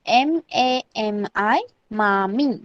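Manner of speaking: spaced letters, then मामी as two even syllables; spelling out pronunciation. Shown as a demonstration. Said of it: "कसं pronounce करणार आपण".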